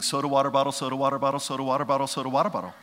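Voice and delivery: lightly droned crowd chatter; hint of crowd walla; crowd murmur. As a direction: mimic a background film crowd. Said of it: "He goes".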